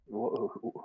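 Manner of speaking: quiet stuttered imitation of garbled audio; imitated audio glitch. Game master asking who's sounding like that, imitated glitch. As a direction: softly mimic a broken-up sound. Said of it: "who's sounding like".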